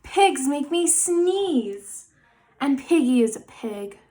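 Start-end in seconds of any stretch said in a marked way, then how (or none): 0.0-2.1 slow dramatic. Acted.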